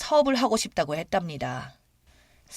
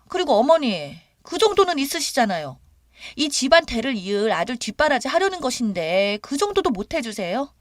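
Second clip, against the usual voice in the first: higher, pushy whining demand; a brazen daughter-in-law wheedling money; entitled daughter-in-law; 6 semitones higher, 3 dB louder than usual. Retold or imitated. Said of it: "기가 막히고 어이없어서". (뻔뻔하게 조르는 며느리 목소리)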